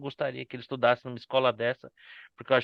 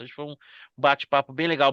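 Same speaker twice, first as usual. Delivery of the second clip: usual speaking voice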